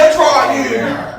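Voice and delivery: high, loud, stretched-out shout; re-enacted shout at the driver; retold sudden yell. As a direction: yell it out, laughing at the story.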